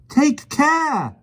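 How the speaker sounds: high, loud warning cry; cried out. A narrator's reading. Jane warns the policeman, high loud cry. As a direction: call out a warning. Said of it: "cried Jane to the policeman".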